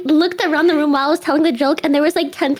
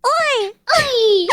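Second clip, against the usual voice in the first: mock British oi; 8 semitones higher than usual. Imitating the British oi.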